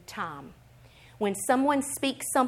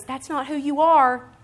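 slow, louder, higher declaration; firm correction; 4 semitones higher, 6 dB louder, slower than usual. Acted. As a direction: state it firmly as God correcting you. God's correction, replayed out loud.

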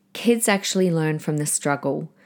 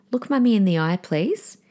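firm, even, no-nonsense request; steady parental command without raising the voice; calm authority; 3 semitones higher than usual. Shown as a demonstration. Mother to her child who won't listen, calm firm authority. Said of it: "Can you hear that authority".

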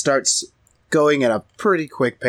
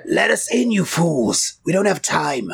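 impatient demand; 6 semitones higher than usual. Acted. Urgent demand at barricade.

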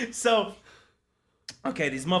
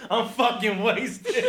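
laughing; 5 semitones higher, much slower than usual. Retold or imitated. Retelling own drunk confession.

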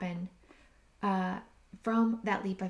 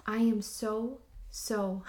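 reciting a prayer. Retold or imitated. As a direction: recite the daily prayer gently to herself. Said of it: "a simple prayer".

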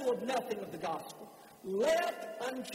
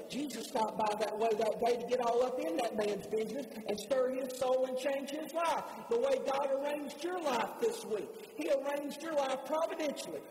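building preaching; 3 semitones higher than usual. Real, not acted. Preacher telling listeners Jesus wants their lives changed, building preaching. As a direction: build steadily, then stretch the last words.

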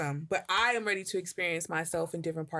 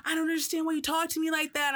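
much higher, baffled hurt voice; imitating girlfriend; 10 semitones higher than usual. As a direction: mimic her confused complaint. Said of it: "And she like".

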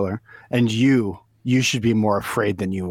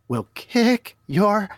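drawn-out rising threat; 11 semitones higher, much slower than usual. Acted. Angry boyfriend threatens prank caller with Dave Chappelle. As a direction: stretch it out, rising to a high yelp on ass.

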